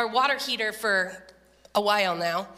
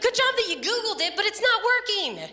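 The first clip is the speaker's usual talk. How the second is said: mock teasing; 9 semitones higher than usual. Teasing Andrew about Googling it.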